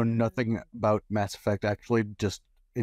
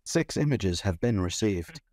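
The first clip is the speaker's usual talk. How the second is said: automated voice. Pretend. Automated announcement voice.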